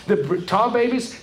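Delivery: ordinary delivery, nothing marked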